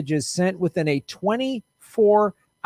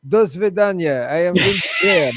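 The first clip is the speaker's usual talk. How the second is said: put-on jokey Russian accent; Southern senator slipping into a Russian accent; Lindsey Graham; 4 dB louder than usual. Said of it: "sometimes I can do a Russian accent".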